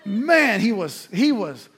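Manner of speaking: loud laughing recall; loud, laughing retelling. Real, not acted. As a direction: laugh out loud as you tell it. Laughing about angry coach.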